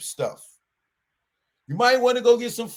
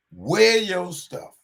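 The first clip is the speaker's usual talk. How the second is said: slow emphatic; 2 semitones higher, slower than usual. Real, not acted.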